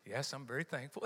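drops soft and low, mock-contemplative; mock quiet thanks. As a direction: play the subdued, polite thanker.

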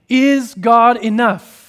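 high, loud and slow, stressing Is; ringing question. Acted. Preacher asking his congregation the core question, loud and slow. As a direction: call the question out to the whole hall.

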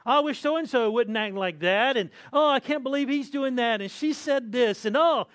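a hammed-up church complainer; mock complaining. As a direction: gripe about everyone at church. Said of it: "start looking at their lives and complaining".

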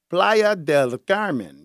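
Playa del Carmen drawn out slowly in a hammed-up Spanish accent. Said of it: "Y'all like my, my, my Spanish accent?".

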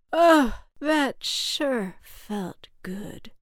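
big high burst easing into slow relief; relieved. A narrator's reading. Cloud finishes a long cry, relieved. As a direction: let out a loud oh, then slow right down.

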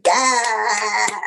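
a light touch of a stern lawyer saying yes; inner lawyer voice. Retold or imitated. To listeners, her inner lawyer approves with a lightly voiced yes. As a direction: answers as her professional self, barely shifted. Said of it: "the entertainment lawyer in me is saying".

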